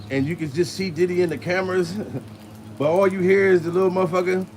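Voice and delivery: ordinary talk, nothing marked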